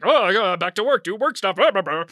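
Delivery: offhand, slightly loud staff chatter; staff brushing it off. Acted. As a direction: shrug it off and get back to work. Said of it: "now they're like".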